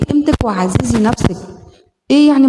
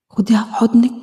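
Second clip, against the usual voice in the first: whisper. Acted. Tender instruction in the exercise.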